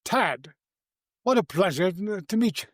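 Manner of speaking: imitating Anthony Hopkins's effusive greeting. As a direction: gush it like a gracious star. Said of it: "he's going".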